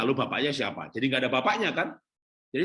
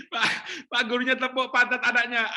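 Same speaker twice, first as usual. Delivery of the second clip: laughing; 9 semitones higher, 3 dB louder than usual. Real, not acted.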